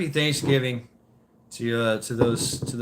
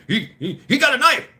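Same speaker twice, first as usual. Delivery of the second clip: imitating a passenger, laughing, higher and louder at the end; laughing tattle; 11 semitones higher, 6 dB louder than usual. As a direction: giggle out the accusation, pitched up.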